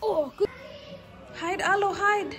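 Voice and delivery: high, rising sing-song call; playful sing-song. Real, not acted. Playing hide with toddler.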